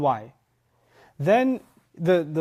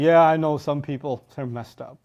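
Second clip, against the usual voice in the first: dismissive agreement. Acted. Listener deflecting blame onto others, offhand and dismissive. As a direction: agree casually, as if it's about others. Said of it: "and you're like".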